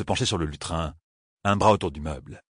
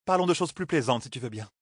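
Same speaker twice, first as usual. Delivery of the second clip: higher queen voice, fading to soft; queen's voice; 4 semitones higher, 4 dB quieter than usual. Acted. The queen brushes off Matt's warning, higher then fading. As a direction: breezily dismiss it as the queen.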